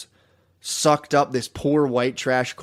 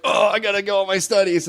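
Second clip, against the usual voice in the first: higher put-on voice of a bookish kid; mock nerdy voice; 8 semitones higher, 4 dB louder than usual. Friend retells a bullied kid's reply in a mock voice. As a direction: squeak it out like a scared studious kid. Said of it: "And Thomas was like".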